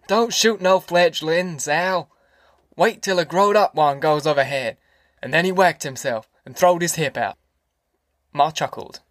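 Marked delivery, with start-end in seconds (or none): 0.1-4.8 mild imitated yell, stretched out; yelling Grandpa. Grandpa telling Al what not to shoot, mock yelling. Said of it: "Grandpa yells".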